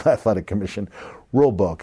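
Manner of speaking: ordinary talk, nothing marked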